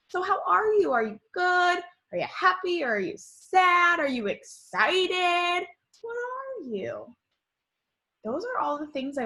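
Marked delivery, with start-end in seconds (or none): 0.1-7.2 "Are you" questions in a high, singled-out series; high-pitched "Are you" questions put to young children; eager questioning. Shown as a demonstration. Models asking questions to class.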